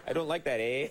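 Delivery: lightly voiced Canadian dad with a mild "eh"; a hint of a Canadian father grumbling. Host mocks her Canadian father, lightly voiced Canadian accent. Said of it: "your dad's in the room crying".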